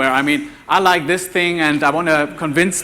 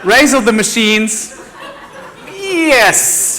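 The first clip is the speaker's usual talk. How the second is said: laughing; 7 semitones higher, 4 dB louder, much slower than usual. Real, not acted. Joke callback over crash video.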